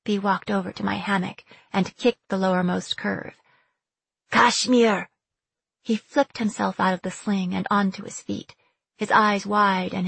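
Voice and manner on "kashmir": sharp call down the deck. Acted. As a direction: call his name to wake him. Bea calls him awake.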